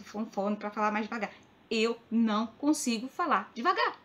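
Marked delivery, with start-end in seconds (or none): 1.7-4.0 slow, word by word; measured, insistent delivery; emphatic spelling-out. Real, not acted. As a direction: space out each word to make the point. Emphatic answer to critics, spelled out.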